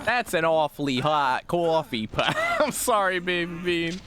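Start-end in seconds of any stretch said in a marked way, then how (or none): 0.1-2.4 New York accent. Shown as a demonstration. Streamer yelling the line in a New York accent. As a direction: belt out "coffee pot" the New York way. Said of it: "how New York can I actually say that".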